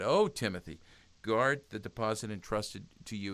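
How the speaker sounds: mildly acted earnest entreaty; begging. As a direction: implore with a swelling "Oh", then urge earnestly. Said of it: "He was, he was begging".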